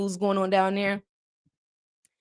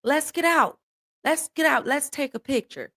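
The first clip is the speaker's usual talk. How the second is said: mimicked eager companion; 5 semitones higher than usual. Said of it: "you see cotton and you say".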